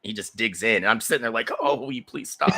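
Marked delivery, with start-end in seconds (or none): 1.6-2.5 high-pitched comic begging; squeaky plea from someone pinned; pained pleading. Retold or imitated. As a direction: beg in mock agony. Begging horse to get off foot.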